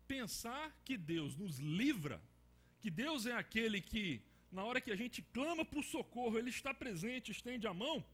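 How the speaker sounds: loud, emphatic preacher; preaching. Acted. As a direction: preach it with full force. Preacher rising to full force.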